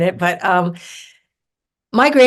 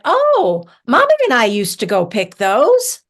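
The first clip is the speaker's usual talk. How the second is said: aunt's excited recall; 4 semitones higher, 4 dB louder than usual. Retold or imitated. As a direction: imitate a delighted aunt. Aunt's delighted recognition, acted.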